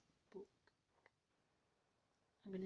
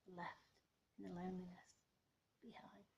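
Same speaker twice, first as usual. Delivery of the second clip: much softer, broken by pauses; hushed poem ending; 8 dB quieter than usual. Real, not acted. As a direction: let the closing words fade away almost to nothing. Misread last line, trailing off.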